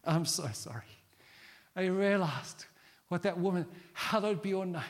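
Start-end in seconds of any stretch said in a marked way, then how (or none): 0.0-0.8 ashamed whisper. Retold or imitated. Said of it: "He was like".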